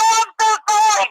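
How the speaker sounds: high, slow embarrassed apology; mock apology. Caught using the wrong name, slow high mock apology. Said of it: "I go".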